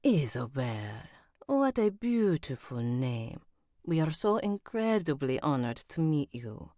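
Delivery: Spanish character voice slipping into Italian; Italian-sounding accent. Acted. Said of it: "I think that went Italian instead of Spanish".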